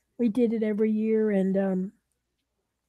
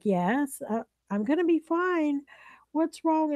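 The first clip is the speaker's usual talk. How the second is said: imitated reassuring friend; 9 semitones higher than usual. Friend telling worried caller she's fine, reassuring. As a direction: voice lifting high into a puzzled question.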